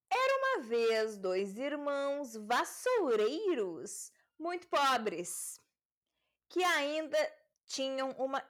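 slow, theatrical fairy-tale reading; drawn-out storyteller delivery with pauses; story narration. A narrator's reading. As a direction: read it grandly, lingering on key words.

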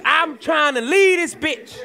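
ordinary talk, nothing marked

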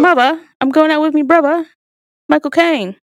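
playful put-on Cockney; mock Cockney, th as v; Cockney accent. Shown as a demonstration. Showing friends the best example, mock Cockney. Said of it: "the best example is".

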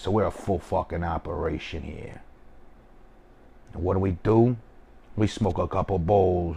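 put-on New York Italian accent; casual storytelling in a mock New York accent. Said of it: "like, a New York accent".

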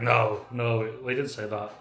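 mock posh. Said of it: "he sounds really posh".

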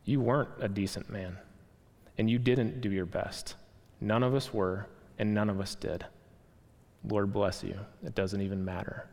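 lightly voiced kindly spirit; gentle spirit. Spirit gently corrects the ghost.

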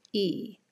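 long tense ee vowel "E", lips spread; E sound. Shown as a demonstration. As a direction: say "E" as a long tight ee. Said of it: "practice the sound E".

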